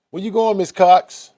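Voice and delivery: high, loud call after her. Real, not acted. Calling after Miss Cox as she leaves, in a high loud call.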